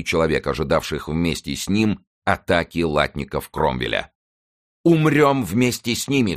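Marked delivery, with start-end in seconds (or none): 4.8-6.4 high, impassioned battle cry; rally your friends to die fighting. A narrator's reading. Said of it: "вскричал король". (пылкий возглас)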